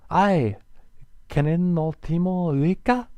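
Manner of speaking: loud, high foreign question; reptilian basilisk calling out. Acted. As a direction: halt and call out in a strange tongue. Voices the reptile.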